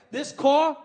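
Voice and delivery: bragging rapper. Retold or imitated. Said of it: "They love to brag".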